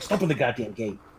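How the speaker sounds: very soft, hushed mutter under the breath. A character's aside to the other guy, muttered under his breath. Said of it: "kind of says under his breath".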